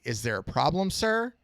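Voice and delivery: courteous butler asking, rising at the end; a politely inquiring servant. Retold or imitated. Butler addresses Hellboy politely.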